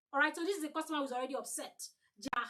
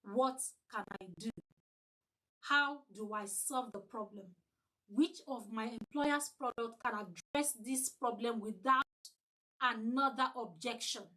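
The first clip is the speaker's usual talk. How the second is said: thinking to yourself; 3 semitones lower than usual. Shown as a demonstration. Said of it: "you are thinking".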